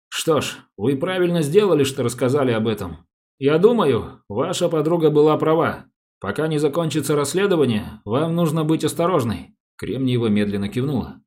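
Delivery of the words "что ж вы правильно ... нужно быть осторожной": lightly voiced officer, higher-pitched than the narration; police officer. Officer advising a worried witness to be careful, lightly voiced.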